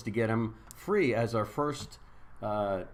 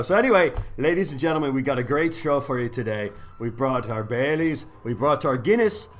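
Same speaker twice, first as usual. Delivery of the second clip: host in a put-on Irish brogue; hammed-up Irish emcee; Irish accent; 4 dB louder than usual. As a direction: sign off to the break like a stage Irishman. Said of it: "accent the whole day".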